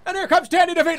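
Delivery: high, taunting trash talk building to a shout; sneering ring announcer rising to a loud roar; mocking wrestling promo. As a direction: taunt your rival on the mic, then yell the entrance. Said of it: "and I'd be like".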